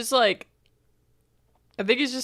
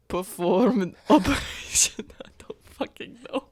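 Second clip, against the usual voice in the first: whispering; 3 semitones higher than usual. Real, not acted. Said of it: "unvoiced whisper".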